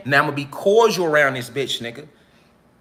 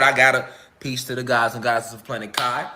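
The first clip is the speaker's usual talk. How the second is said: low and much softer, worn out, barely bothering; drained low energy; 9 semitones lower, 6 dB quieter than usual. Real, not acted. Sending peace to the elders while worn out, low and soft. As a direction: sign off with the last of your energy. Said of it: "this ain't the energy I'm on right now".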